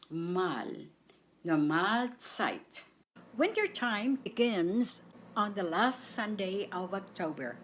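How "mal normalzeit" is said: "Mal" alone, then "Normalzeit" slowly, weight on "mal"; stress on MAL. Shown as a demonstration. Teacher shows learners where stress falls, second syllable stressed. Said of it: "The stress is on the second syllable".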